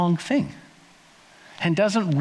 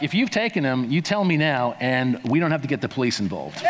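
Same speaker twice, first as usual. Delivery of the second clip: lower, a playful hint of menace; mock veiled threat; 4 semitones lower than usual. Preacher voicing Mary warning the gardener, mock menacing. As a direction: lean on him like a half-joking shakedown. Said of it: "it sounded a little bit like".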